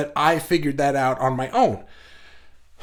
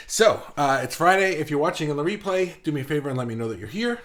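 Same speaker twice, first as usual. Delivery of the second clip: breathless from running the stairs; out of breath; faster than usual. Real, not acted. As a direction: talk while still catching breath. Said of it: "I'm already out of breath".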